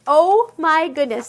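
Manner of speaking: loud, slow delighted gasp of words; real giddy excitement; excited gush. Real, not acted. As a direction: burst out thrilled at a cute project. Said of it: "I get so excited sometimes".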